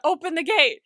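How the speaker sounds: a retold shout at the gate; mock shout. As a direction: yell at the gate guard. Junki yelling at the gate.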